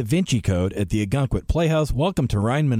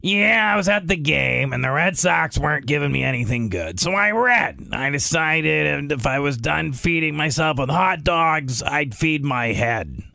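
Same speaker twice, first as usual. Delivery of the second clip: slow, drawled Stephen King voice; a hint of Stephen King, taken slowly; Stephen King impression; slower than usual. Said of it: "he kinda talks like this".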